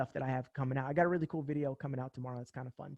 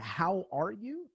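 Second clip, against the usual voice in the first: stiff scripted greeting; 4 semitones higher, much slower than usual. Retold or imitated. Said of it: "who talks that?".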